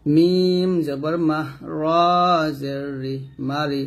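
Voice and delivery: slow, drawn-out letter names, short syllables after; measured classroom spelling chant; spelling recitation. Shown as a demonstration. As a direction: stretch each letter name, then join the syllables.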